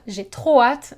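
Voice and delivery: "trop" punched for emphasis; stress on trop. Shown as a demonstration. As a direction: hit the word "trop". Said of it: "put some emphasis".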